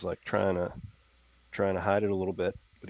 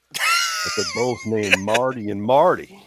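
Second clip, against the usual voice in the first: laughing; 7 semitones higher, 10 dB louder than usual. Real, not acted. Joke about twin names.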